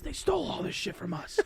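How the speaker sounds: high-pitched mock mobster griping; Paulie Walnuts. Friend retelling a Sopranos scene, high griping mobster voice. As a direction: whine it high like an aggrieved gangster. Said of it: "you sound like, uh, Paulie Walnuts".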